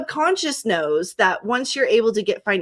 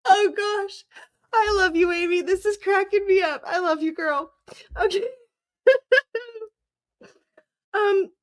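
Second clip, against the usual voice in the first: giggly aftermath; 10 semitones higher than usual. Real, not acted. Still laughing, apologizing.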